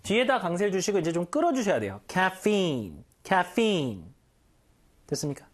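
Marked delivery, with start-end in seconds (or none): 2.1-4.0 Caffeine with kya at the start and a drawn-out, stressed feen; stressed final syllable. Shown as a demonstration. Teacher repeating Caffeine slowly, stretching the stressed end. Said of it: "일단 카는 아니고 약간 캬에 가깝고요".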